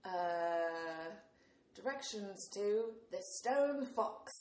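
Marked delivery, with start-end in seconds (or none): 1.7-4.3 slow, badly faked British accent; shitty British accent. User coaxing the phone assistant in a slow, bad British accent. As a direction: put on a hammy British accent to be understood. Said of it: "speak in my shitty British accent".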